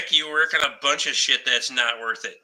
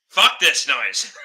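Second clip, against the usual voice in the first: laughing retort; 2 semitones lower, much slower than usual. Retold or imitated. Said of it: "I was so pissed off that I was like".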